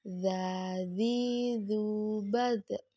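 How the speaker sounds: "Za, zi, zu" mengalir dengan lidah di gigi atas; udara ditahan. Shown as a demonstration. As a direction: ayun "Za, zi, zu", tahan udaranya. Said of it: "tahan udaranya". (bunyi dz lembut pada "Za, zi, zu")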